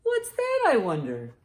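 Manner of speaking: high curious question; wondering aloud. A narrator's reading. Narrator wondering at a whistling sound. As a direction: puzzle over the whistling.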